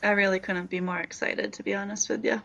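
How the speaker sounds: understated deadpan delivery; monotone voice. Real, not acted. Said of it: "you say it in such a monotone voice".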